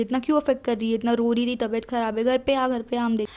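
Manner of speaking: a chill mom waving it away, fast; brisk mom voice. Retold or imitated. Mom voiced, brushing off the firing. (बेपरवाह माँ की तेज़ आवाज़)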